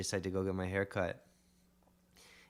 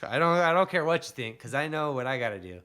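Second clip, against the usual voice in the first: much louder and higher, full conviction; imagined believer shouting his resolve; fierce resolve; 6 semitones higher, 9 dB louder than usual. Pretend. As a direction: declare it like nothing will stop you.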